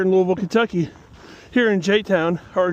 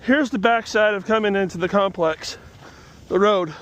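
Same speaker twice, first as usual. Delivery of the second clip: breathing hard while walking; audible breaths between words; heavy breathing. Real, not acted. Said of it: "Sorry for my breathing".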